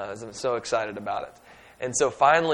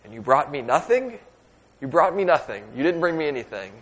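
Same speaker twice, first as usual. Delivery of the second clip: indignant complaint; 3 semitones higher, 4 dB louder than usual. Retold or imitated. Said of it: "what I wanted to say".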